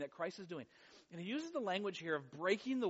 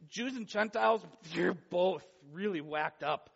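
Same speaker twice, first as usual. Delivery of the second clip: Paul scolding; 4 dB louder than usual. Retold or imitated. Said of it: "he's really saying".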